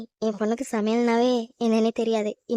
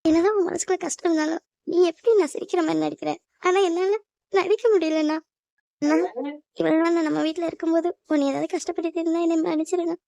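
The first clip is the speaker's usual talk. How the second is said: higher-pitched, upset apology; tearful; 4 semitones higher than usual. Acted. Sister asks brother's forgiveness on leaving home, tearful.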